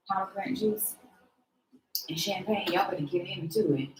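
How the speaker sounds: a hushed conspiratorial aside; whispered. Real, not acted. Host telling viewers about his drink, whispered. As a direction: whisper it as a secret.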